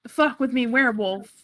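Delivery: ordinary talk, nothing marked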